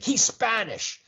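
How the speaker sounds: high-pitched mock protest; defensive insistence. Ex-wife defending her phone scammer to husband, mock indignant.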